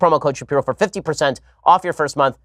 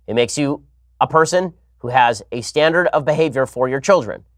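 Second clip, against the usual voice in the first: usual speaking voice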